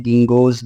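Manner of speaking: गिंगोस with an s or z sound closing it; गिंगोस, ending in a sibilant; pronunciation variant. Shown as a demonstration. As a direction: say गिंगोस as "ging-goz". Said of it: "कुछ लोग इसको बोलते हैं".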